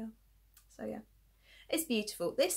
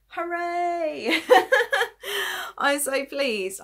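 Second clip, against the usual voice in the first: loud delighted cheer with laughter; excited; 8 semitones higher, 9 dB louder, much slower than usual. Real, not acted. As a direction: celebrate the finished piece. Celebrating finished knitting piece.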